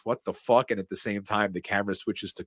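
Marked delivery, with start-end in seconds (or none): 0.0-0.7 incredulous. Retold or imitated. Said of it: "McClane hears this over the radio and goes".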